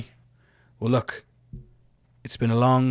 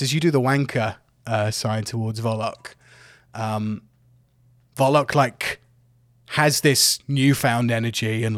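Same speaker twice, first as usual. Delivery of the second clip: usual speaking voice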